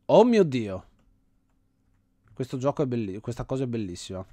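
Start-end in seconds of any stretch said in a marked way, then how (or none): 0.1-0.8 a loud, real gasp of wonder; amazed outburst. Real, not acted. Vlogger stunned by the game's clever level, loud amazement. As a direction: blurt it out, genuinely floored.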